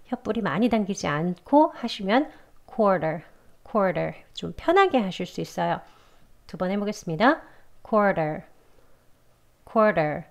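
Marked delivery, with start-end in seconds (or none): 2.7-4.1 "quarter" short and relaxed, tongue root barely pulled for the first r; weak er. Shown as a demonstration. Teacher showing an easier way, "quarter" with weak er. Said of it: "er 소리 약하게 해가지고 발음해볼게요". 7.9-10.2 "quarter" short and easy, first r softened; weak er. Shown as a demonstration. Teacher giving two repeats for learners, "quarter" with weak er. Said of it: "이렇게 발음하시면 문장 속에선 더 편하게".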